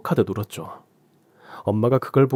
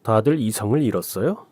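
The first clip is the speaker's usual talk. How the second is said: obnoxious; 2 semitones higher than usual. Acted. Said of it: "아주 재수없게 말했죠".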